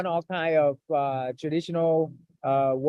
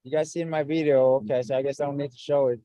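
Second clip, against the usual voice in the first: choppy breaking-up call audio; glitchy robotic call. Real, not acted. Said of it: "audio is breaking up".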